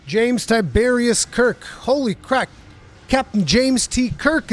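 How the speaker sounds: high, loud, drawn-out starstruck cheer; excited fan shout. Real, not acted. Streamer thrilled that Captain Kirk is in chat, shouting excitedly. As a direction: greet a hero who just walked in. Famous name shows up in chat.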